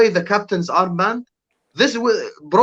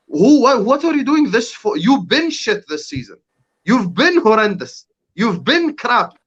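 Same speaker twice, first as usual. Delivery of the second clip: higher, heated disbelief; angry rant; 6 semitones higher than usual. Real, not acted. Football pundit ranting at the United captain, heated and higher. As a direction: tear into him, rising in outrage.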